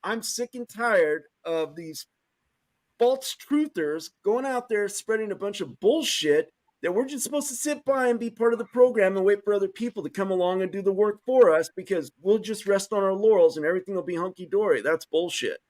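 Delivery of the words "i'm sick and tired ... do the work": emotional, fed up. Real, not acted. Activist venting to listeners about false truthers, emotional and fed up. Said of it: "I'm gonna get very emotional here".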